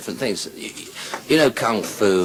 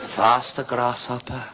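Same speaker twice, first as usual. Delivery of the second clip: measured command at usual pitch; restrained urging; kung fu master. Acted. Master urging Grasshopper on, still calm. Master urges pupil, first take.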